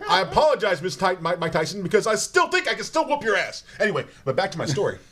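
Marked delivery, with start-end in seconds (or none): 0.1-1.8 tripping over the name; stammering, restarting the words; stuttering. Real, not acted. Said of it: "I'm stuttering right now".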